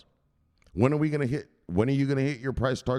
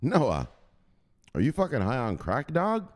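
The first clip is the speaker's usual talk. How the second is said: higher jeering street voice; mocking neighbors; 6 semitones higher than usual. Neighbors mocking Noah, a touch of high ridicule. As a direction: laugh him off, high and scornful. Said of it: "everyone around him laughed at him like".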